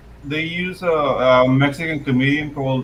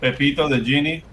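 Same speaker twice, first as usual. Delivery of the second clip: Spanish genie voice; 3 semitones lower, 3 dB quieter than usual. Pretend. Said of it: "you sound like the genie".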